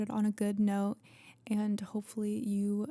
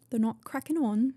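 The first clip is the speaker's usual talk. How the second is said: English accent; 3 semitones higher than usual. Shown as a demonstration. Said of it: "my accent sucks".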